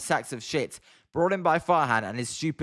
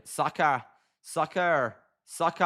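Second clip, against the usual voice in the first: "Soccer" tried over and over in a clumsy American accent; American accent attempt; slower than usual. Shown as a demonstration. Streamer practising a word and failing, awkward American accent. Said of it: "can't do it".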